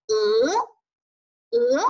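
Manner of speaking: long 呃 with a rising tone; second tone. Shown as a demonstration. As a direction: lift 呃 upward. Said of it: "二声向上扬读呃".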